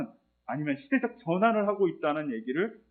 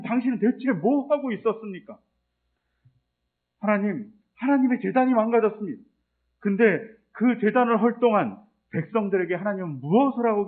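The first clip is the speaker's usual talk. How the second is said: a raised, complaining lament, a bit higher and louder; arguing with God; 4 semitones higher, 4 dB louder than usual. Retold or imitated. Elijah protesting to God, raised and complaining. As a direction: demand answers from God, building frustration. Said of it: "이렇게 막 하나님께 따지는 거죠".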